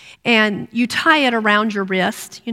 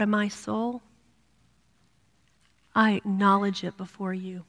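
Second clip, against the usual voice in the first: soft heartfelt prayer; 5 dB quieter than usual. Pretend. Preacher showing the women a harder, honest prayer, soft and heartfelt. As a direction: pray it quietly from the gut. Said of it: "That's harder".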